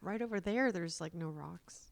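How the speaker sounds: softly imitated helpful stranger; hushed, tactful advice. Stranger turning to a mother on beach, soft and tentative.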